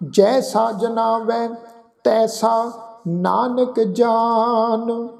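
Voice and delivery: slow devotional recitation; scripture recitation. Acted. Granthi recites Sukhmani lines to the sangat, slow devotional. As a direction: draw each line out reverently.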